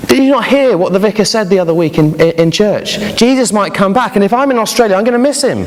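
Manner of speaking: put-on high, rising childlike worry; girl explaining her fear to her parents; anxious little girl. A narrator's reading. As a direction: sound like a child afraid of missing Jesus. Girl voiced in story.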